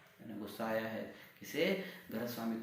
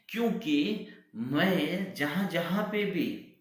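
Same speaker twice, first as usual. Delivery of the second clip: frightened; 3 semitones higher, 4 dB louder, slower than usual. Acted. Frightened maid explains herself.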